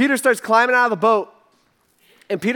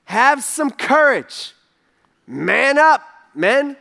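rallying call; 4 semitones higher, 4 dB louder, much slower than usual. Shown as a demonstration. Preacher urging courage.

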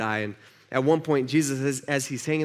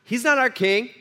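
indignant leaders; 6 semitones higher than usual. Acted. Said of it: "they're like".

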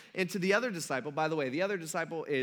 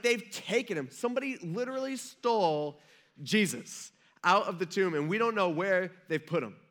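a touch of panicked urgency; acted panic; 3 semitones higher, 3 dB louder than usual. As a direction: act out alarm at a theft. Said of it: "She is in a panic".

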